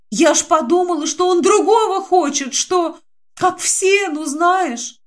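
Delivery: высоко и жалобно, сквозь слёзы; выше, как оправдывающаяся девочка; всхлипывая. Acted. Динка всхлипывая объясняет. (высоким плачущим голосом)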